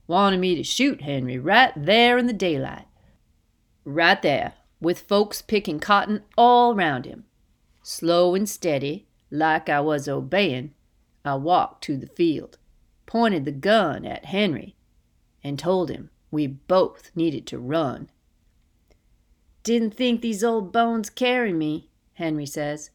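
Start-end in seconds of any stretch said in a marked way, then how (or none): 0.1-18.1 emphatic, louder fireside storyteller; raised, insistent character voice; man telling his escape. Acted. 19.6-21.9 higher, louder elder's voice, lightly acted; lifted, lightly voiced old man; old man marvelling. Voices Henry, old escaped man.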